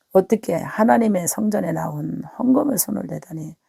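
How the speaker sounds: usual speaking voice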